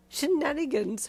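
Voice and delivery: amused baffled echo of Shenanigans?; mock disbelief. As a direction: repeat Shenanigans? as a playful incredulous echo. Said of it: "you laughed".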